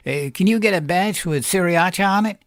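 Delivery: man's voice. Acted. Man answers Carla in story.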